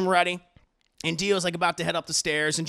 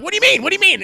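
much higher, louder shocked cry; shocked disbelief; 13 semitones higher, 11 dB louder, much faster than usual. Retold or imitated. Podcaster reacting to Dio's plan, shocked squeal.

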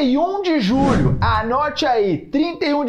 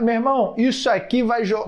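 ordinary talk

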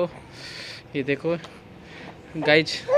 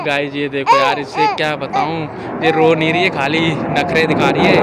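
talking over crying; 7 dB louder than usual. Real, not acted. Baby crying over him. (रोती बच्ची के ऊपर ऊँची आवाज़ में)

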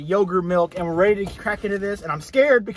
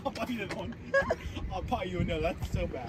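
quiet; 12 dB quieter than usual. Real, not acted. Quiet after pain.

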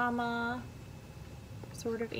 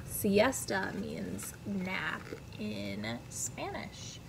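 soft aside; 6 dB quieter, slower than usual. Real, not acted. Aside to child.

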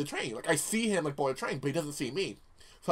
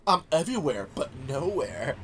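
laughing; 3 semitones lower, 3 dB quieter than usual. Retold or imitated. Mock-spooky stalker text.

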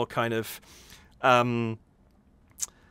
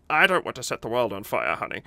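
deadpan; faster than usual. Retold or imitated. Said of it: "absolutely plank rigid".

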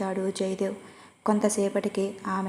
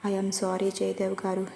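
slow, breathless whisper through tears; a slow tearful whisper, pleading forgiveness. Acted. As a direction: whisper the apology as if still weeping. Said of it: "ఆ ఏడుస్తున్న స్వరంతో".

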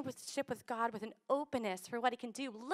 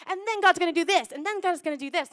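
loud, high, eager; childlike, wide-eyed excitement; excited expectation; 7 semitones higher, 10 dB louder than usual. Pretend. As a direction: cheer it like a kid.

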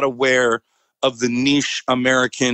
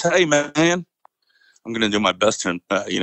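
sergeant's Southern drawl; Southern accent; 4 semitones lower than usual. Retold or imitated. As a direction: imitate a heavy Southern accent. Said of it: "he had a very heavy Southern accent".

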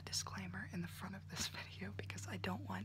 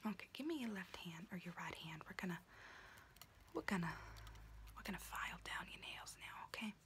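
whispering auntie roleplay. Acted. Auntie whispering to her niece while doing her nails, in a confiding unvoiced whisper. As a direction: whisper close and chatty like a kooky aunt doing your nails.

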